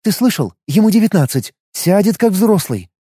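urgent woman. Acted. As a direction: plead urgently with a partner. Taisa persuading Matvey.

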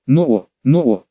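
urging a horse. A narrator's reading. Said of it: "понукал Чайку Тимофей".

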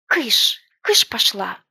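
loud shoo at a bird. A narrator's reading. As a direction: wave the magpie away. Girl shoos the magpie.

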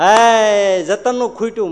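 loud high call across the crowd; announcing the shortage with a loud cry. Acted. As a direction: shout it out so everyone hears. Calling out that Jatan's ran out.

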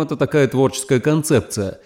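ordinary delivery, nothing marked

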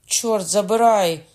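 loud, slow, drawn-out oath; slow loud curse. A narrator's reading. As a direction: bellow the curse at half speed. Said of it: "скрикнув Кокона". (повільний гучний вигук)

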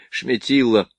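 lightly voiced Polish accent; soft Polish accent. A narrator's reading. Captain introduces himself to the artillerymen, soft Polish accent. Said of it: "с мягким польским акцентом".

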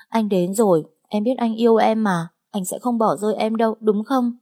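cling to him with a pleading voice; lightly voiced needy young woman; clingy pleading girl. Clingy girl begs man.

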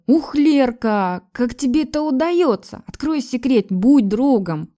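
drawn-out playful coaxing of a shy friend; playful teasing. A narrator's reading. Friend nudging Lera with her elbow, teasing her playfully. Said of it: "Игриво толкнула она меня".

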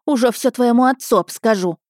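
high, threatening telling-off; scolding. A narrator's reading. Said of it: "отчитывала она парня". (сердитый нагоняй высоким голосом)

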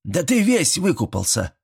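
high astonished granny, stress on ты; granny gasping. Acted. Grandmother gasps at the soaked boy, astonished. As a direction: throw up your hands at the wet boy. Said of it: "ахнула Степанида".

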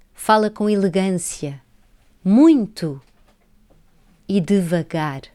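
measured poem reading with pauses between lines; deliberate, spaced-out poetry reading; poem recital. Acted. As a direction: recite line by line, each phrase falling at its end.

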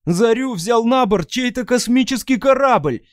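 high, loud excited cry; exclamation. Acted. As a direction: blurt it out in amazement. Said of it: "воскликнул кто-то". (изумлённый громкий возглас)

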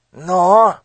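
loud, high demand; impatient bark. Acted. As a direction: snap at the silent child. Minister presses. (нетерпеливый окрик)

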